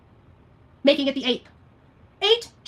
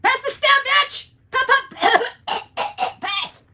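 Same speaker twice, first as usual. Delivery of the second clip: high, loud, slow junkie screech; mock drug addict; 12 semitones higher, 4 dB louder, much slower than usual. Mocking the rival as a drug user, loud. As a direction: ham up a strung-out addict demanding the pipe.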